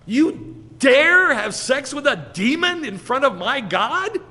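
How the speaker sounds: loud, high, outraged challenge; Pinchas. Acted. Pinchas confronting a man before his God, acted outrage. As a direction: explode in righteous jealous fury. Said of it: "that's essentially what Pinchas felt".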